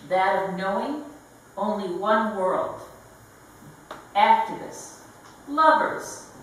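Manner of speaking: measured lines set apart by pauses; deliberate poem recital with weighted words; poetry reading. Acted. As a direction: read it as a manifesto poem, pausing after each phrase. Reads own poem aloud.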